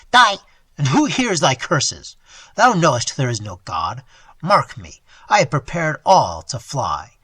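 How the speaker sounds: cold mockery. Robber coldly mocks.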